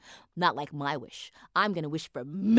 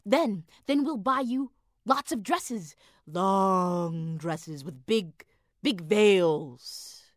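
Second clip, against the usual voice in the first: coaxing; 3 dB louder, slower than usual. Acted. Husband coaxes wife slowly.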